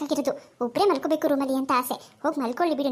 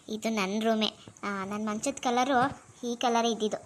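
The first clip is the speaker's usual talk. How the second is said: put-on drunk mumble; 5 semitones lower, 4 dB quieter than usual. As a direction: slur it like a tipsy girl finding her bed. Drunk sister mumbling to herself. (ಕುಡಿದ ಅಮಲಿನಲ್ಲಿ ನಿಧಾನವಾಗಿ ಗೊಣಗುವುದು)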